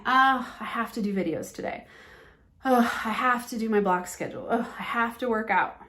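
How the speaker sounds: put-on groan of reluctance on each "Oh"; burdened, uninspired. Coach mimicking someone listing their have-tos, mock burdened. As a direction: act out mild dread of a chore. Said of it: "reinforcing in yourself that it's a burden".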